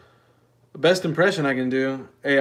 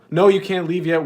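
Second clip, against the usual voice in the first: mock pleading call; 5 semitones higher, 7 dB louder than usual. Real, not acted. Calling viewers back.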